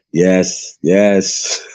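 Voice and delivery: put-on a light West African accent on yes, yes; barely shifted African-accented yes, yes; mock African accent. Voicing the minister in a light West African accent. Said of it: "I'm gonna use my African voice now".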